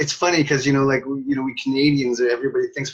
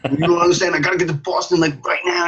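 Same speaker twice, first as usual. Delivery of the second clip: loud, raised voice of an agitated traveler; acted exasperated demand; mock frantic insistence; 8 semitones higher, 6 dB louder than usual. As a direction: plead urgently, high and loud. Retold quarrel at ticket counter.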